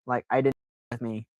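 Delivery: hushed confession; whispering. Real, not acted. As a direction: whisper it like a secret. Confessing the lie.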